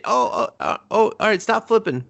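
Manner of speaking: high, hyped-up spectator voice; mock amazement. Spectator egging on a flip show-off, mock amazed.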